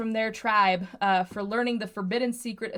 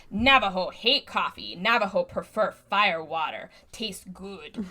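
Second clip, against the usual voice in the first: caricature stereotype voice; slower than usual. Retold or imitated. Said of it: "she says in the most get 'em pale face kind of".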